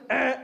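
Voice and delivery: short imitated wrong-answer buzz; game show buzzer. Alarm man rejects Goodfellas, imitated buzzer. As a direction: buzz the guess out like a quiz show. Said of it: "we're playing some sort of game show here".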